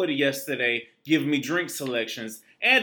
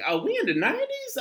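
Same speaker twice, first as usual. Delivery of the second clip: amazed squeal; faster than usual. Retold or imitated. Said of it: "I'm like".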